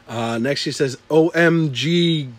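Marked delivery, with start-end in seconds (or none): 1.1-2.3 slow spelled out. Shown as a demonstration.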